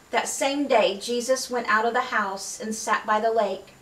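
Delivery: steady, measured Bible reading; scripture reading. Acted. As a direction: read the passage to the congregation. Reads scripture aloud.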